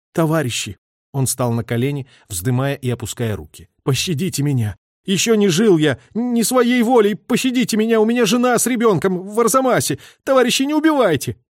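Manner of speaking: high, loud, terrified pleading for life; desperate begging. A narrator's reading. The captured traitor begs the soldiers to spare him, desperate pleading. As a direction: beg for mercy on your knees.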